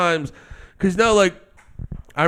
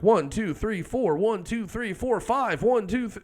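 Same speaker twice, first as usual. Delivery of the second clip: each number on a rising-falling beat, "One, two, three, four"; counting out beats; 5 semitones higher, 7 dB quieter than usual. Shown as a demonstration. Drummer counting changing time signatures, in steady beats. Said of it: "just flat out going".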